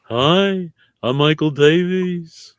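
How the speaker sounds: drawn-out caricature voice; lightly put-on impression, stretching the words; Michael Davies. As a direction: introduce yourself in a slow mimicking voice. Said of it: "You wanna hear my impression of Michael Davies?".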